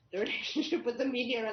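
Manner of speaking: real chuckle breaking into the words; laughing. Real, not acted. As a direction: talk through a small laugh. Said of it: "I'm laughing".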